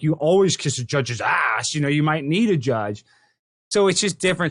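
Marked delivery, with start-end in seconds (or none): 0.0-3.1 lightly voiced old-school dad, slow and low; a hint of a stern father lecturing; slow, low voice of his father. Son imitating his dad's advice about judges, slow and low.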